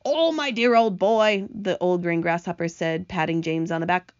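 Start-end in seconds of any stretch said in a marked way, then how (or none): 0.0-1.5 slow, higher, hearty address; fond congratulation. Acted. Grasshopper pats James on the back, hearty fond praise. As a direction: draw it out with fond admiration.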